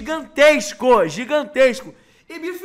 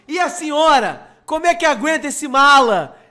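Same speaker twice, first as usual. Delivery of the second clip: loud teasing vendor; 6 dB louder than usual. Retold or imitated. Vendor teasing the companion, retold.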